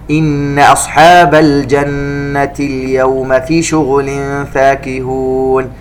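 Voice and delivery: slow, elongated tajweed chanting; Quran recitation. Shown as a demonstration. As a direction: recite it slowly and melodically. (تلاوة مجودة بطيئة)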